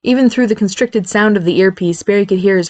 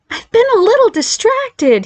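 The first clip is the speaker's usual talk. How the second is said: understated; slower than usual. Acted. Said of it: "he understated massively".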